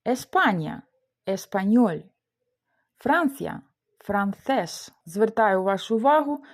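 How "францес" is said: Францес with the stress on its final syllable; stress on last syllable. Shown as a demonstration. Teacher shows learners the accent mark, final-syllable stress on Францес. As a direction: land the stress on the end of Францес. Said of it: "графічний наголос на останньому складі".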